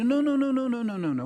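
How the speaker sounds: emphatic refusal. Acted. Edith insists on a bigger dream.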